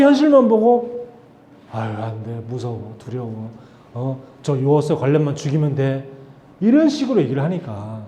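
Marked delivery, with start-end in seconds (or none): 1.7-6.1 mock fearful whimper. Israelites panicking before the giants.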